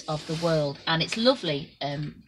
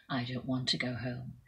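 soft inner thought; 4 semitones lower, 8 dB quieter than usual. A narrator's reading. Bartimaeus thinking.

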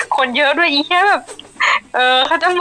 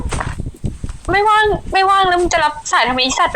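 slow, higher mock-nasty retort; imitating a nasty caller; 6 semitones higher, much slower than usual. Retelling a rude caller to a friend, slow mock-nasty imitation. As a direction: drag out the caller's rude words mockingly. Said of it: "แบบพูดแบบเหี้ยมาก".

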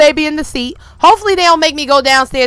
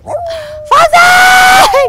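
long high shout across the house; high-pitched joyful holler; calling out; 5 dB louder than usual. Real, not acted. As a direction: call the dog from far away, drawn out. Calling the dog excitedly.

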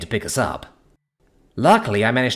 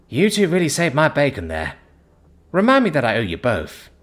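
shaky voice; 4 semitones higher than usual. Acted. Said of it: "he said with a shaky voice".

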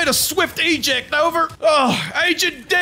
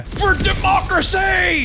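battle cry; 2 semitones higher than usual. Acted.

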